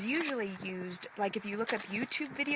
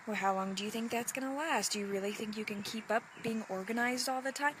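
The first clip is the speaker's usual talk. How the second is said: doubting inner voice; faster than usual. Retold or imitated. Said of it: "the voice in your head".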